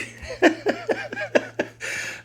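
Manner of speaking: a burst of high giggling; high laugh. Real, not acted. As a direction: laugh at your own moaning. Laughing at his own whining.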